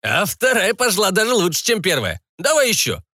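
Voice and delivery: high, rowdy pirate. A narrator's reading. Pirate enjoying drinking.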